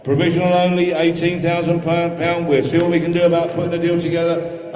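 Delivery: rhythmic, repetitive bid chant; auctioneer bid calling. Acted. Auctioneer taking bids from the room, steady patter. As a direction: keep the numbers rolling to the room.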